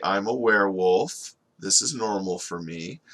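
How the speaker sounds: offhand, everyday admission; very casual. Acted. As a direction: say it as something perfectly normal. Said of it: "very casually".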